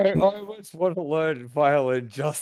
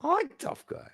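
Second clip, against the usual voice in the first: silly high voice; 4 dB quieter than usual. Acted. Playful high-voice echo.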